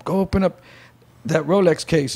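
commanding gunman. Retold or imitated. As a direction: tell her to move, no nonsense. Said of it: "And he was like".

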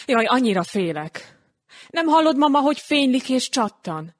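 put-on high, pleading voice of a scared little boy; a small boy trembling with fear, asking grandma; frightened child. Janika frightened of the fireworks. (ijedt kisfiú hangja)

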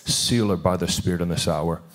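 steady, earnest pastor's prayer over someone; fervent prayer. Acted. Pastor praying over Jasmine with hands laid on her, fervent prayer voice. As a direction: speak blessing over her like a minister.

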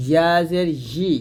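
ই as "yi", mid-tongue to palate; palatal y. Shown as a demonstration. Teacher models ইয়া জের ই, with a palatal "yi". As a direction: sound a clear y at the start of ই. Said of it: "জিহ্বার মধ্যখান তার বরাবর উপর তালুর".

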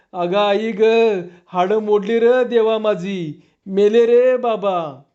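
high, keening mock lament, slowing at the end; sing-song wail of a beaten wife, pure act; fake wailing. Wife wails at the banging door to fool the thieves, staged keening. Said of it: "झकास सूर धरून गळा काढला".

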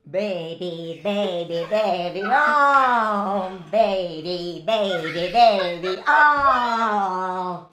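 helium voice. Real, not acted. Singing on helium gas.

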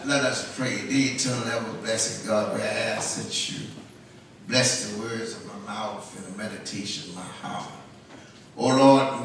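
low, solemn pastoral prayer. Real, not acted. Pastor asks God to bless the sermon, low solemn prayer.

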